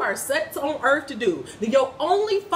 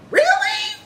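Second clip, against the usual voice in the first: incredulous; 4 dB louder than usual. Real, not acted. Incredulous rant at doubting viewers.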